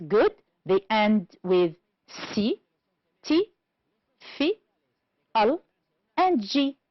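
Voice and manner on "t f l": ordinary delivery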